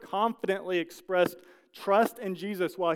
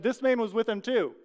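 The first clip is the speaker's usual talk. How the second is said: put-on higher, louder voice of a servant girl pointing him out; accusing servant girl; 6 semitones higher, 5 dB louder than usual.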